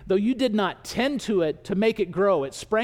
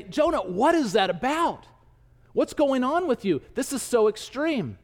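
lightly baffled questioning, raised pitch; mock incredulous; 5 semitones higher than usual. Listeners ask Jonah what's going on, lightly incredulous. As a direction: question him as if taken aback.

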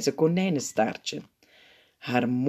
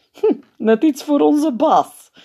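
whispered joke; 12 semitones higher, 8 dB louder, slower than usual. A narrator's reading. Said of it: "fluistert de lachpiet".

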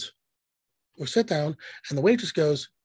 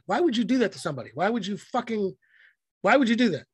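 mock outraged waitress; 5 semitones higher than usual. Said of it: "she was like".

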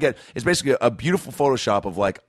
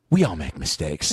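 stony lawyer pleading; 8 semitones lower than usual. Acted. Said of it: "That's my opening argument".

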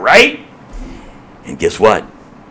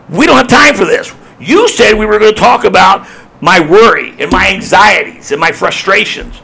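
mild impatient complaint; 3 semitones higher than usual. Acted. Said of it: "people in the crowd saying".

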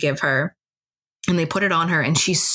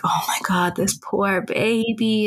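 a whispered worry that rises higher and slows down; anxious whisper; 4 semitones higher, slower than usual. Retold or imitated. A mother whispering her worry over her sick child. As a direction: breathe it out, then let it lift slowly.

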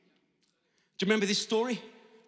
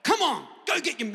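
lively mock cheering-on; cheering encouragement; 3 semitones higher, 4 dB louder than usual. Crowd that should have encouraged the beggar, cheering. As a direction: egg him on like a supporter.

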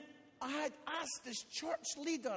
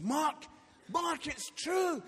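insistent wife; 4 semitones higher, 6 dB louder, slower than usual. Retold or imitated. Wife insisting after her outburst.

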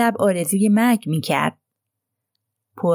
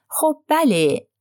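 slow, drawn-out, much higher reluctant yes; reluctant admission; 8 semitones higher, much slower than usual. A narrator's reading. Roddy reluctantly admitting to Poirot, slow and drawn out. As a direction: stretch it out, caught and unwilling.

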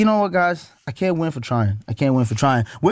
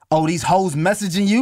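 put-on jealous girlfriend; 5 semitones higher than usual.

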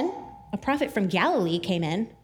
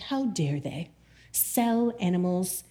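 mock offended; much slower than usual. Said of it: "we can get very, like, Christian and offended".

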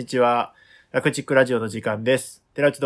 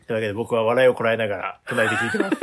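holding back laughter, quick; words pushed through suppressed giggles; stifled giggles; faster than usual. Real, not acted. (笑いをこらえながら)

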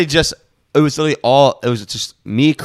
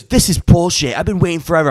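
higher-pitched mock customer rant; cussing Karen; 4 semitones higher, 3 dB louder than usual. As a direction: imitate an irate customer cussing out staff. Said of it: "like, cussing me out".

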